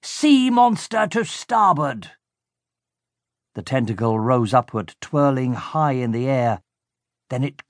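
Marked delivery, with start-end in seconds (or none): 0.0-2.1 much higher, slow gleeful announcement; villain thrilled at the monster, calling out. A narrator's reading. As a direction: call it out like a triumphant captain. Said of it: "he called gleefully".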